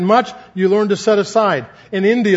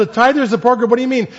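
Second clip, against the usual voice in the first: higher pitched, incredulous query at Bob's idea; surprised question; 5 semitones higher, faster than usual. Retold or imitated. Answering Bob's odd request for a tither support group, surprised. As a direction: ask it like you can't believe the idea.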